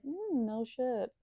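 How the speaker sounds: imagined comeback, loud and scornful. Pretend. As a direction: let them have it, sneering and smug. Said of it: "I'll be like".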